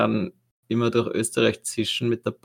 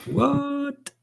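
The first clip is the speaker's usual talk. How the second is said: surprised. Real, not acted. Reacts to trip news.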